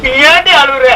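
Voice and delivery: mildly tearful question to the wife. Acted. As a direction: ask it through a held-back cry. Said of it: "நீ ஏன் அழுகுற?".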